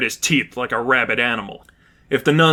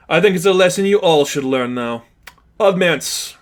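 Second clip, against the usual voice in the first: raised, cold threat; menacing villain; 6 semitones higher, 4 dB louder than usual. Acted. Lipov warning the whole group, menacing villain voice. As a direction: lecture them cruelly.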